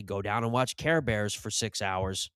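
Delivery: junkie dad. Retold or imitated. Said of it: "he'd say".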